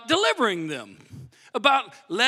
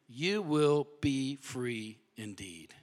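hushed emphasis; 9 semitones lower, 7 dB quieter, slower than usual. A narrator's reading. Scripture ending hushed.

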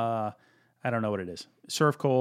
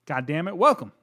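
announcer voice; 4 semitones higher than usual. Acted. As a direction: open the show like a big announcer. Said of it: "I went to full announcer voice here".

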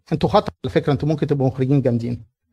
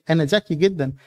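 sly boast; 7 dB quieter than usual. Acted. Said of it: "هو بيدعي، بيقول لك".

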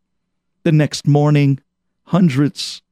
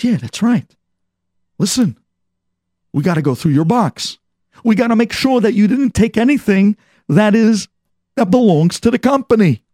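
a guard calling him back, pitched higher; stern guard; 5 semitones higher than usual. Retold or imitated. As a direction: halt him at the door, clearly higher. Guard insists on checking box.

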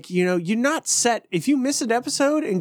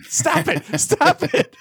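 high, loud stop it; playful protest; 9 semitones higher, 3 dB louder, much slower than usual. Retold or imitated. Coworkers quote the show, he protests loudly. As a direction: laughingly tell them to quit.

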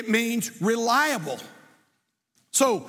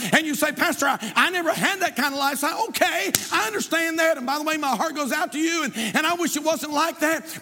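raised, pleading preacher's voice; preaching; 3 semitones higher than usual. Acted. Preacher pleading with parents in the congregation, raised and insistent. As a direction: urge the church to pass faith to their kids.

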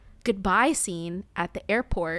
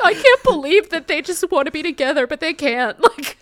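mock emo self; 4 semitones higher, 7 dB louder than usual. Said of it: "my fucking emo ass is like".

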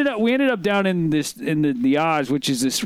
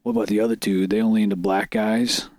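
lightly voiced country bumpkin; country accent; 7 semitones lower than usual. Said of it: "And they go".

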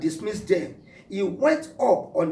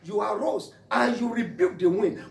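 wondering aloud to Jesus; 4 semitones higher than usual. Retold or imitated. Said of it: "I was wondering".

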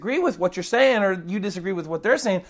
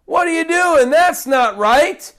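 higher, louder scolding rant; mock angry rant; 5 semitones higher, 5 dB louder than usual. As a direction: ham up a furious scold. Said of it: "Jesus never once here says".

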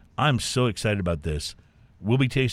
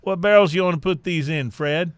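mock Texas hillbilly accent, a touch higher; 5 semitones higher, 4 dB louder than usual. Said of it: "That was a, that was a great accent".

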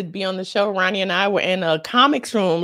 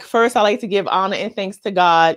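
mock award speech. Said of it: "You know how every rapper starts there".

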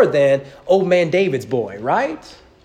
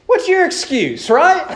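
challenging; 3 semitones higher than usual. Retold or imitated. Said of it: "he's almost as if he's saying".

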